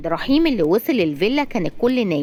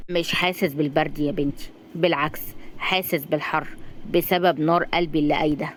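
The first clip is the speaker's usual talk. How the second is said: put-on old man voice; 3 semitones lower, 3 dB quieter than usual.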